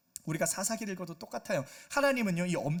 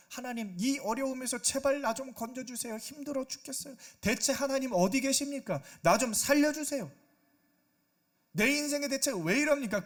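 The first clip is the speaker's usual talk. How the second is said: higher, whining plea for rescue; selfish cry; 5 semitones higher, 4 dB louder than usual. Retold or imitated. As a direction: beg God only to save yourself. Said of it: "이기적인 그런 부르짖음". (자기만 살려달라는 징징대는 부르짖음)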